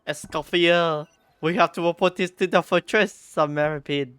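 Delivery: mock French accent. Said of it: "annoy you guys with my accent again".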